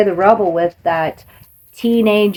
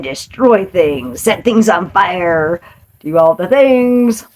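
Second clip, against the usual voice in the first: building excitement; 4 dB louder, slower than usual. Acted. Building mock rampage.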